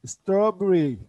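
Strawberry with a soft, lisped T. Shown as a demonstration. Teacher explaining the lisped T to students: Strawberry with soft T. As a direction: say Strawberry with the T softened. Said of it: "T'yi peltek söylüyoruz".

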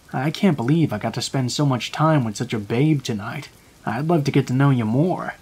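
flat, emotionless compliment; lightly voiced creepy flatness; cold monotone voice. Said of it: "in the most cold, monotone voice".

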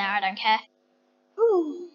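usual speaking voice

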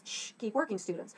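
gently shushing the class; a kind, patient teacher's hush; soft, patient reminder to keep working. Shown as a demonstration. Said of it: "I wanted to make sure that this teacher was kind".

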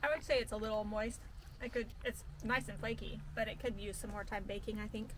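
talking through a bite; words round a mouthful of biscuit; mouth full. Real, not acted. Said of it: "Am I talking with my mouth full?".

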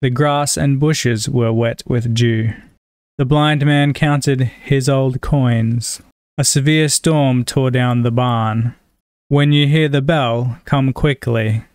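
measured read-aloud of test sentences; reading sample sentences. Shown as a demonstration. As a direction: read each sentence evenly and carefully, with slowed endings.

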